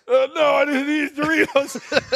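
slow, high-pitched guilty denial; drawn-out, unconvincing no; mock innocent denial. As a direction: imitate someone caught out and playing innocent. Caught snacker denies it to Karen.

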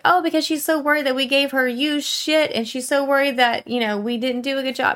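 office staffer. Retold or imitated. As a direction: voice the office worker relaying the news.

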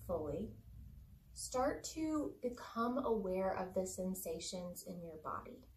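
unhurried meditation voice with long pauses; calm body-scan narration, leaving room to breathe; guided meditation. Acted. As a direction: guide listeners gently through the body.

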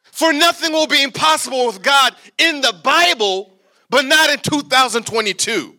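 loud, teasing laugh through the words; mock the doubters, half laughing; laughing mock shout. Real, not acted. Mocking the congregation's doubt.

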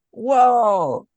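high, loud, drawn-out gasp of awe; amazed wonder. Retold or imitated. Mary reacting to the angel, full of wonder. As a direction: let one astonished exclamation ring out. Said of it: "full of wonder".

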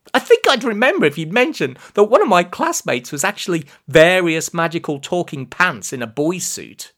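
exasperated, rapid retort; indignant protest. Acted. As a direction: argue back indignantly at speed. Indignant boy argues with Prescar.

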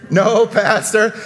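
"No, Pastor" said slowly and firmly; firm call-and-response reply; prompted response. Shown as a demonstration. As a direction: lead the room in answering back. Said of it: "You're all supposed to say".

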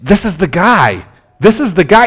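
eager fan pointing him out; excited crowd. Retold or imitated. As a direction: crowd buzzing about Jesus. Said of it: "amongst the cheering and saying".

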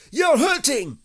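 high, loud wail of protest; pained cry. A narrator's reading. Pooh protests to Rabbit pulling his paw, pained cry. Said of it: "cried Pooh".

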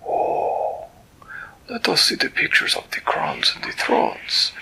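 a delighted, fussy creature greeting a friend; Flibbertigibbet's voice. Acted. Storyteller voicing Flibbertigibbet greeting Winella, high and delighted.

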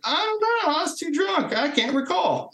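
mock playing dumb. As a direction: play innocent in a squeaky, exaggerated tone. Mock answers to NCIS interrogators.

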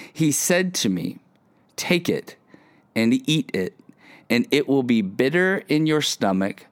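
measured Bible reading with deliberate pauses; scripture reading. Real, not acted. Pastor reading Revelation to listeners, measured and paused. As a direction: read the verse out, phrase by phrase. Reads Bible passage aloud.

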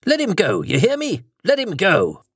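high, urgent shouted demand; frantic demand. Acted. Prime Minister shouts at the thing possessing Charlie, high frantic order.

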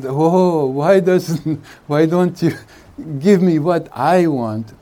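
a mild mock whine of the needy ego; whining ego. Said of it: "The ego takes it".

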